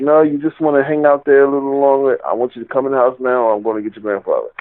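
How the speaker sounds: a hint of a stern grandmother hurrying the kid inside; scolding grandma. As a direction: grandmother ordering the boy into the house, lightly voiced.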